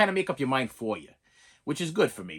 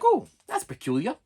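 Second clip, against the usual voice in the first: mocking the stupid kid; 4 semitones higher than usual. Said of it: "that one stupid kid".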